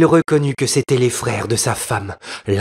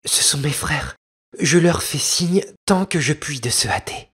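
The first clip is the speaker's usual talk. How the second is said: exclaiming; 7 semitones higher than usual. Acted. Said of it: "s'écria-t-elle un moment après".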